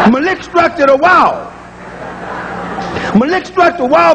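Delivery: Malik struck to the wall, blended dialect way; relaxed dialect saying; dialect pronunciation. Retold or imitated. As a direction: home dialect for molecular structure. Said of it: "every time I say".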